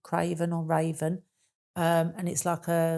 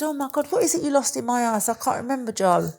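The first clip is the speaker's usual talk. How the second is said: high, louder mock-innocent teasing; 7 semitones higher, 6 dB louder than usual. Teasing Joe on air about her house, high mock innocence. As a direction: pretend to forget, to embarrass him.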